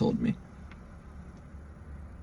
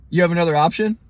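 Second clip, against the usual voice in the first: slightly higher, questioning lift at the end; imitated offhand challenge; 4 semitones higher, 3 dB louder than usual. Cop and tow guy putting it to the stranded driver, imitated challenge. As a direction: imitate their brusque question. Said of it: "they said it like that".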